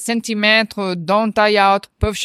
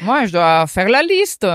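laughing; 6 semitones higher than usual. Real, not acted. Laughing about Black Friday shopping.

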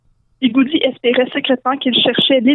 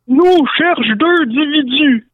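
slow, drawn-out orc voice; Ugluk; 3 semitones higher, slower than usual. Acted. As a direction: stretch each word like a slow-witted orc. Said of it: "dit Ugluk". (voix d'orque lente et traînante)

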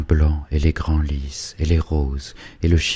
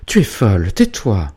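sharp, louder scolding; mother silences her dreaming daughter, severely; severe rebuke; 3 semitones higher, 5 dB louder than usual. Acted. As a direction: cut her off sternly. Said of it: "interrompit sévèrement Hubertine".

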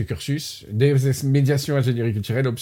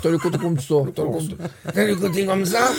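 hammed-up Corsican accent, laughing; 3 semitones higher than usual. Host mimicking his guest's accent du Sud, mock Corsican accent. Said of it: "des fois aussi l'accent corse".

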